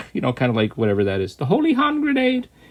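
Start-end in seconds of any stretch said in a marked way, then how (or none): 1.3-2.4 very high-pitched, silly, comic voice. Describing a dubbed voice actor's sound: high-pitched Michael Palin voice. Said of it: "it's very high-pitched".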